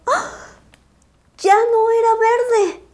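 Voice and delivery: high, startled gasp of dismay; shocked. Acted. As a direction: blurt it out in shock. Shocked discovery in mirror.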